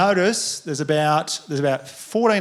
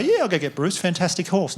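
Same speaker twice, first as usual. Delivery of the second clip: higher, upbeat mock agreement; hoped-for eager reply; 4 semitones higher than usual. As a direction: play the keen, willing helper. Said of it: "I wanted him to say".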